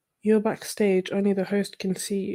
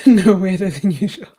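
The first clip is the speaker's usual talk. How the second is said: laughing; 5 dB louder than usual. Real, not acted. Laughs at viewer's comment.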